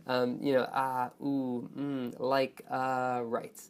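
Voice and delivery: drawn-out stalling noises, groping for words; hesitant vocal fillers. Shown as a demonstration. Teacher listing fillers to avoid, halting hesitation. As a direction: hem and haw between words. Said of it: "vocal fillers, or repetitions".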